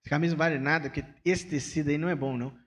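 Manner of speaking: fast, scornful brush-off; dismissive put-down. Retold or imitated. Friend belittling the pastor's new shirt, fast and dismissive. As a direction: rattle off the put-down quickly. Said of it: "o Vinícius fala assim".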